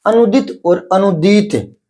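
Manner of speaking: अनुदित with short i, अनुदीत with long ii; short and long vowel. Shown as a demonstration. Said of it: "तो छोटी मात्रा है अनुदित". (छोटी इ से अनुदित, बड़ी ई से अनुदीत, धीरे से)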